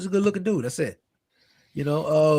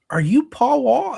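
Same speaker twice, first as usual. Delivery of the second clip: high, loud, drawn-out starstruck question; mock starstruck waitress; giddy; 10 semitones higher, 6 dB louder, slower than usual. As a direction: imitate a giddy fan, slow and high. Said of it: "she's all giddy and stuff".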